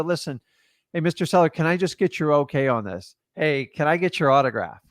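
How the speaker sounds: easy friendly pitch to a seller; smooth demo line. Shown as a demonstration. Wholesaler coaxing a homeowner to sign, lightly friendly. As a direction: sweet-talk the seller into signing. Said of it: "So instead of signature, go".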